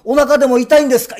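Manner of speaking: a touch of the fussing woman; worried lady. Retold or imitated. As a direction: fret over him as the lady. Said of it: "まあ、お兄さん".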